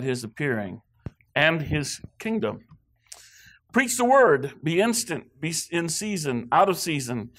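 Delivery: measured, emphatic pulpit reading; scripture reading. Acted. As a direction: proclaim the verse in deliberate phrases, with pauses. Reads scripture aloud.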